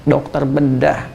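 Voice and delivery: "dokter bedah" drawn out at half speed, softly; slow emphatic repeat. Real, not acted. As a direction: say "dokter bedah" slowly, letting each word sink in. ("dokter bedah" diucapkan pelan dan lambat untuk penekanan)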